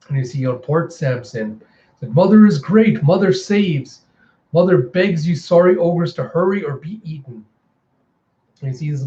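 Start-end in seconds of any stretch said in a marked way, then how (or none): 2.1-7.4 higher-pitched proclamation to a crowd; calling out. Acted. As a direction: call it out like a zealous herald. Zealot calls out orders in port.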